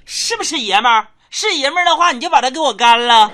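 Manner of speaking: high, loud mock mom egging him on; bossy mom. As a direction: dare him like a bossy wife. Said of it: "只听我老妈对老爸说一句".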